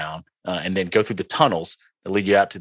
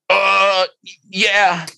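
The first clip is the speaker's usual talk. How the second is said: eager yes; 10 semitones higher, 5 dB louder than usual. Retold or imitated. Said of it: "of course I'm like".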